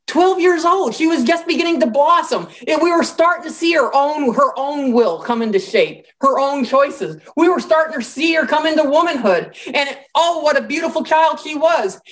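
high-pitched, acted lament; horrified mourners. Mourners lamenting a twelve-year-old girl, acted horrified grief. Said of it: "they're horrified by what has happened".

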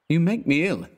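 high, exasperated jab; mock disgust; scornful retort. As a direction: scoff at your friend. Elliot's scornful reply.

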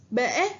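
bể with a clear hỏi tone dipping; bể said slowly and clearly; model reading. Shown as a demonstration. Teacher models the word for pupils. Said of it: "Các bạn hãy lắng nghe cô đọc".

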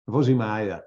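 put-on one last German-accented "Vozi Maya"; punchline repeat of "Vozi Maya" in German accent. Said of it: "my German accent".

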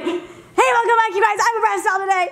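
high talking doll voice; Bratz doll voice. Pretend. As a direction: greet the fans like a Bratz doll. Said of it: "your best pop singer Bratz doll impression?".

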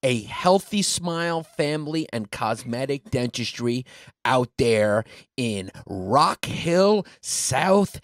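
measured announcer-style ad copy, drawn-out place names; sponsor ad read. Acted. Co-host telling listeners about the dental sponsor, ad read. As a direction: sell it as a podcast sponsor read.

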